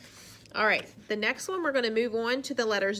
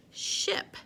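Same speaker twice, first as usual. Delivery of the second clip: whispered word. Shown as a demonstration. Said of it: "Let's say the sounds together".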